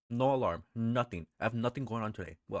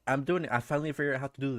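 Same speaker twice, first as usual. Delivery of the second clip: excited; 4 semitones higher, 4 dB louder, faster than usual. Real, not acted. Excited at figuring out game.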